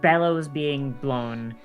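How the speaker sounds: slow, hushed game master description; slow scene narration. Acted. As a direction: paint the vision slowly. GM describes the vision slowly.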